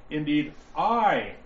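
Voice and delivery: "I" punched and drawn out slowly; stress on I. Shown as a demonstration. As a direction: hit "I" hard and hold it before pausing. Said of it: "You're going to hear me emphasize".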